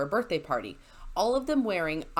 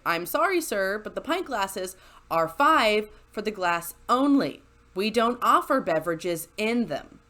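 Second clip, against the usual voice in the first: polite service voice; 4 dB louder than usual. Retold or imitated. Polite bartender voice to customer.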